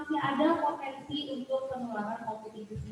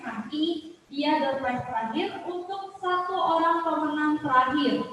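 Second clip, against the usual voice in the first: hyped prize build-up; 3 semitones higher, 4 dB louder than usual. Real, not acted. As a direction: draw out the prize like a game show host.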